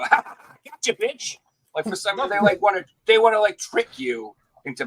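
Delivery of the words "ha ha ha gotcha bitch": high-pitched gloating taunt; mocking taunt. Game companies taunting the tricked buyer, high mock gloating. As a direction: jeer like a schoolyard bully. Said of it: "And then they go".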